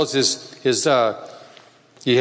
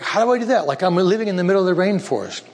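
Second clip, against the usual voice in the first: high, bewildered asking; baffled question; 5 semitones higher than usual. Retold or imitated. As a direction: toss up your hands, how would I. Michael baffled how to call church.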